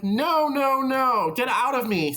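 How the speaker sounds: playful mock shout at your own shame; mock pushing away. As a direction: shove the voice off, half-hammed.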